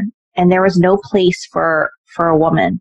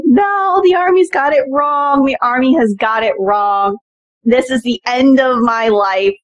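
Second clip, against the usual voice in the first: higher, pleading, mildly tearful; mock despair at the bad news; retold crying protest; 4 semitones higher than usual. Cadet protesting her branch to the professor, mildly tearful. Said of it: "I started crying".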